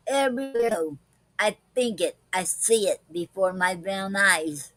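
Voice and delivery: slow, lilting poem recital; poem reading. Acted. Wife reciting her daisy poem to her darling, slow and lilting. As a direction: read it out slowly like a love poem.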